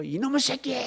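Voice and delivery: high mock scolding yell; a hint of an angry father. Father to the child, mock angry scolding.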